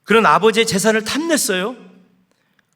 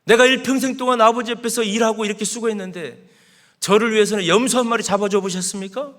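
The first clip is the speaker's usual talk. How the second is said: 살짝 연기한 화난 항의; 억울함을 가볍게 실어 따지듯; 대드는 큰아들; 4 semitones higher than usual. Acted. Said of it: "화가 나가지고 아버지한테 막 손가락질하면서 이렇게 대드는". (아버지에게 대드는 큰아들, 살짝 연기한 화난 항의)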